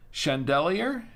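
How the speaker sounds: chandelier said as "shan-DEL-ee-er" with a rising end; trying chandelier as shan-del-ee-er, unsure; unsure pronunciation attempt. Shown as a demonstration. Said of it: "I don't know how to pronounce this".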